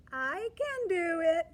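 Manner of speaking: loud, high cheer of the line; yelled out. Shown as a demonstration. Teacher yelling the line so the children yell it back. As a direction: yell it out to lead the kids. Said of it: "Yell it out".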